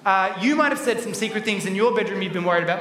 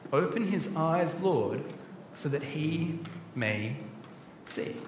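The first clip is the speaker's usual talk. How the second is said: slow, much softer, fading to near silence; hushed prayer; 5 semitones lower, 9 dB quieter, slower than usual. Acted. Elisha praying for his servant, hushed and slow. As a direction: pray it gently, trailing away. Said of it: "Elisha prays".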